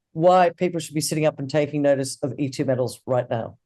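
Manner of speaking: losing his voice, a bit hoarse; strained, worn-out hoarse voice. Real, not acted. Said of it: "losing my voice".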